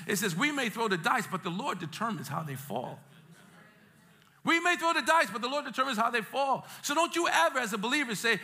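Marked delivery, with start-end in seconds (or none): 4.4-6.7 raised, preached declaration; emphatic repeat. Shown as a demonstration. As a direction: drive the verse home, starting high. Repeats verse emphatically for congregation.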